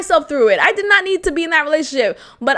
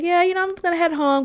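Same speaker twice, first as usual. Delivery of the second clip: breezy excuse; 5 semitones higher, much faster than usual. Retold or imitated. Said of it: "I was like".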